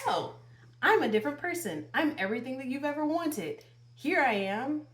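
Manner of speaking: high, fast mock sweet-talk of a no-good ex; sing-song sarcastic impression of the ex promising change. Mocking an ex who claims he has changed. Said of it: "magically be like".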